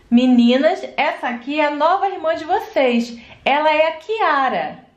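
low reassuring mom; mother voice. Acted. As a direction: soothe the little one as mom. Mother introduces new sister.

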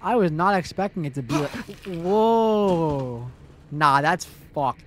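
startled gasp, shaken; scared horror game streamer. Real, not acted. Jump scare reaction.

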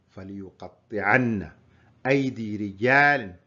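measured mock shout to a crowd; imitated public cry. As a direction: proclaim it word by word, retelling a cry. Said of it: "صار يصيح في الناس".

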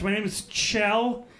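name said the Swedish way; Kjell said Shell. Shown as a demonstration. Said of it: "pronounced Kjell".

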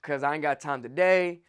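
low, soft mock excuse, rushed; lazy excuse. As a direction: mumble the excuse like a procrastinator. Mocking procrastinator excuses.

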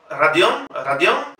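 Radión begun with a light R; Radión with soft R, A for first O. Shown as a demonstration. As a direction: repeat Radión without a strong trill. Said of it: "nunca va a sonar una R fuerte".

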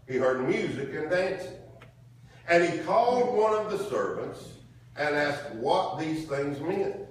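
slow, emphatic Bible reading; scripture reading. Acted. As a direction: read the verse out to the congregation, stretching the phrases. Reads scripture aloud.

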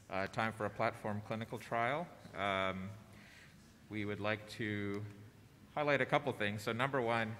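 muffled behind a mask; talking through a face mask. Real, not acted. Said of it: "if you can't hear me through the mask".

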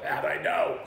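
loud, high Philadelphia holler, laughing; mock Philadelphia accent, incredulous and shouted; Philly accent. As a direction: throw it back in exaggerated Philly. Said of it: "Of course you're from Philly".

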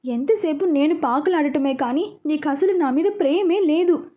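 whiny fake-tearful complaint, voice rising; a hammed-up tearful pout; mock crying whine. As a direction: pout and whimper it like a sulking girl. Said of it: "ఏడుపు మొహం పెట్టి".

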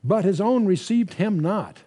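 slow, measured reading of verse; scripture reading. Acted. Bible teacher reading the verse slowly to the congregation. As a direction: read the verse out deliberately to the class.

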